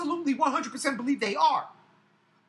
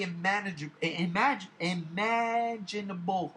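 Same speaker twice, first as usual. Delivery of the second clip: tongue-tied stumble; 2 semitones lower than usual. Real, not acted. Frustrated fan fighting to get a word out, tongue-tied. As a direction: stumble over the word, then drag it out slowly. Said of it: "get it out".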